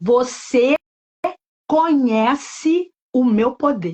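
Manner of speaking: strong voice, spoken very slowly. Retelling a voice heard speaking on the bus: imitating a strong voice. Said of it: "Aquela voz forte entrou dentro do ônibus e falou assim pra mim".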